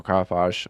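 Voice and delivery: Carapace said as "cara-posh"; variant pronunciation. Shown as a demonstration. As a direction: end Carapace like the word "posh". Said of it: "I'm not sure how it's pronounced".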